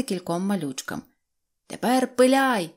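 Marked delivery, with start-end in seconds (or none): 1.7-2.7 shouted order. A narrator's reading. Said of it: "крикнув він Поспішайкові".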